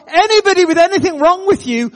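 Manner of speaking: high, loud call to the room; retold public announcement. Muslim man summoning the whole bar for prayer, loud announcement. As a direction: proclaim it so the whole bar hears. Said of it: "announces to the whole bar".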